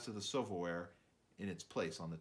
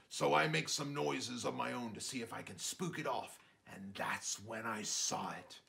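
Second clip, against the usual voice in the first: dad telling a tale; 2 semitones higher than usual. Acted.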